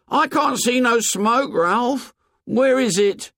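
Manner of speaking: high, insistent disbelief; incredulous Piggy. A narrator's reading. Piggy pressing Ralph about the missing smoke, high and incredulous. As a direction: press Ralph, unable to believe it. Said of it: "said Piggy incredulously".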